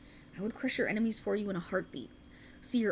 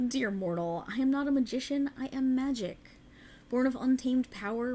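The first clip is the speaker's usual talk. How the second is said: a fairy noble confiding a secret to a mortal; otherworldly fae. Acted. Fae ruler addresses a mortal.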